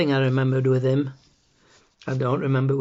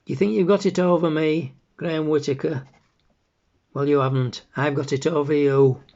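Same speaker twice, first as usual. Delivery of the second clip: raised, indignant mother's taunt; shouting; 4 semitones higher, 4 dB louder than usual. Acted. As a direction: taunt him loudly through a closed door. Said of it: "she comes shouting outside the door".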